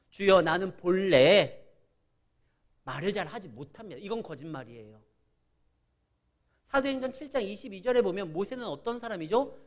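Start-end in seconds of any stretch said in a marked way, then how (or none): 0.1-4.0 Moses making excuses. Retold or imitated. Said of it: "모세가 하나님 앞에 이렇게 변명합니다".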